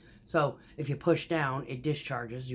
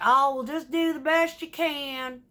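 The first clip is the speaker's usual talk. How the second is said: mock calm advice; 10 semitones higher, 5 dB louder than usual. Voicing the calm finisher.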